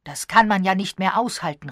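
loud burst of exasperation; calling out. A narrator's reading. Elliot loses patience with the prank, loud outcry. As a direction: shout it out, fed up. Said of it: "rief er".

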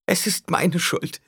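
high, slow moan; groaned self-blame. A narrator's reading. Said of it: "ächzte Alia". (hoch und langsam geächzt)

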